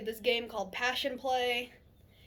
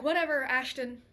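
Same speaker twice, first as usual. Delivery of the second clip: louder, dismissive brush-off; retold attitude; 3 semitones higher, 5 dB louder than usual. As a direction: re-enact snapping back at a boyfriend with attitude. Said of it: "I had an attitude with you".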